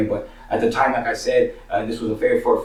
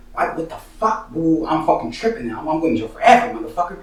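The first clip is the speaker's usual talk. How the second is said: raised-pitch, worked-up retelling of panic; retold freak-out; 5 semitones higher than usual. Storyteller tells homies he's going to jail, retold freak-out. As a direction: act out tripping out, voice pushed higher.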